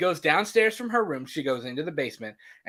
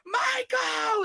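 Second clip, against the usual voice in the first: high, piercing scream of a name; a high mock scream calling Michael; retold scream. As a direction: scream it out to call him. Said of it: "and she's screaming".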